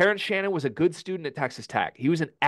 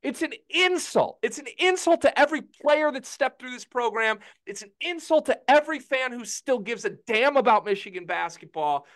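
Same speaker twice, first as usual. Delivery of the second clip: impassioned anger; 9 semitones higher than usual. Real, not acted. Furious fan rant.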